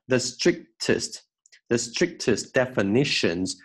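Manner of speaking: "strictest" slowly with the K held back; swallowed K. Shown as a demonstration. Teacher modelling for students, "strictest" with swallowed K. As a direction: pause on the unreleased K inside "strictest". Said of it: "我们把它可以吞掉".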